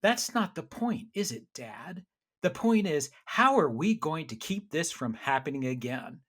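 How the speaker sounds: lightly imitated sarcastic teenager; mock sarcastic. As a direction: put on a son's pointed, sarcastic comeback. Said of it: "this sarcastic voice on the other side".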